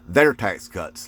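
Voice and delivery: "Their tax cuts" said slowly, each word weighted; emphatic repeat. Real, not acted. Repeating the point to Trump voters, emphatic. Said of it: "Let me emphasize that".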